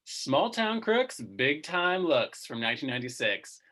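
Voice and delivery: movie announcer. Pretend. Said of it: "I'm gonna say it like the movie announcer".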